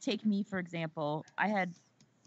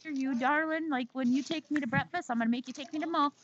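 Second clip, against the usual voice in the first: playful threat; 6 semitones higher than usual. Pretend. Teasing friend about mall trip.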